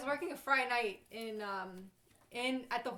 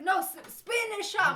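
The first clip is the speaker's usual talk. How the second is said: insistent yell; 8 semitones higher, 7 dB louder than usual. Retold or imitated. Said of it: "his friend's like".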